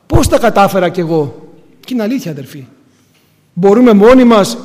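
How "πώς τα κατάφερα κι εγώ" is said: louder, amazed cry of disbelief; astonished exclaim. Pretend. Believer in heaven asking the Lord, loudly astonished.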